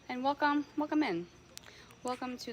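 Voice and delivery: high, bright welcome; excited welcome. Real, not acted. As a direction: welcome them in gleefully. Welcoming new viewer.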